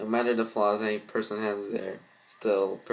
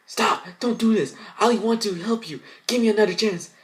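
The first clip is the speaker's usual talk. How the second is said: much higher, loud desperate begging; pleading villain; 12 semitones higher, 6 dB louder than usual. Acted. Mirror villain begging the sisters not to break it. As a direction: beg for mercy in a panic.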